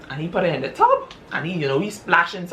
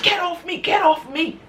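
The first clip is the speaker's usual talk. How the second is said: much higher, panicked pleading; frightened wife; 13 semitones higher than usual. Retold or imitated. Wife waking to find her husband over her, high and panicked. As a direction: push him away in fright.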